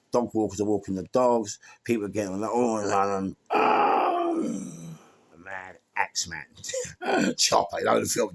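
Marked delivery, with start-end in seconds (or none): 3.5-4.7 high startled Oh!; shocked cry. Retold or imitated. Bystander yelping at the axe man. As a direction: yelp like a startled passerby.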